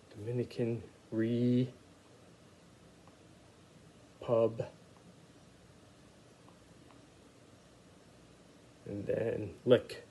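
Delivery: "re", "pub", "lick" said as separate slow syllables; slow, syllable-by-syllable "Republic" for kids; sounding out syllables. Shown as a demonstration. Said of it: "I'll sound it out as we go along".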